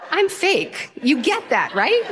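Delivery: high-pitched, insistent appeal; mock pleading. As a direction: plead to be understood, pitched well up. Exasperated plea to the farmer.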